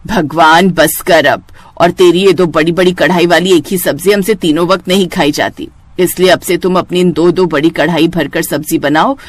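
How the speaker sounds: put-on tired elderly woman complaining at the table; grumbling mother-in-law. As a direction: grumble like a fed-up saas.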